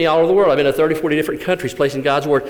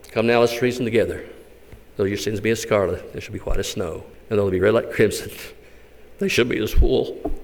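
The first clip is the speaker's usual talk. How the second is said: lower, softer scripture read; reverent reading; 5 semitones lower, 4 dB quieter than usual. Acted. Jane reading Isaiah alone in her jail cell, hushed.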